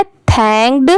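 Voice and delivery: थैंक्ड with an audible d at the end; final D sounded. Shown as a demonstration. Teacher showing the last D is heard, final d sounded in थैंक्ड. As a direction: let the closing ड sound in थैंक्ड. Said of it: "ड की sound आएगी ही".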